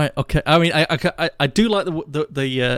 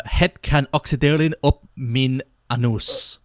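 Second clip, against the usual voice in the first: Dutch accent. Shown as a demonstration. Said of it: "that was quite a good, um, accent there".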